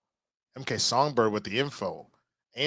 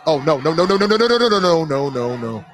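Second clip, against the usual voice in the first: rising, louder string of nos; real panic; 4 semitones higher, 6 dB louder than usual. Real, not acted. Streamer watching the rescue fail, loud and panicked. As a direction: genuine dismay as it goes wrong.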